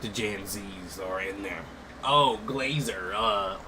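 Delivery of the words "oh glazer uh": mocking chat kids. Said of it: "Who talks like that?".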